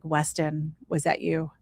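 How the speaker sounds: soft, hushed call to her late son; quiet question. Retold or imitated. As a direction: ask the dark gently, barely aloud. Asking late son's spirit quietly.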